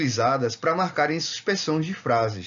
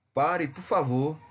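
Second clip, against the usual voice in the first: drawn-out, begging stop; slow pleading command; slower than usual. Shown as a demonstration. Teacher demonstrating an exclamation, a slow plea. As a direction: plead slowly for them to stop. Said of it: "ordem, súplica".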